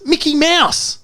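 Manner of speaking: sudden high-pitched warning yell; high, urgent cry of alarm; joke-telling shout. Acted. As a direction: yell it out like a jumpy rookie agent raising the alarm. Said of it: "and he shouts".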